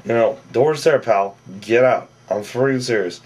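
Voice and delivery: retold angry telling-off. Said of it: "Vinny's like".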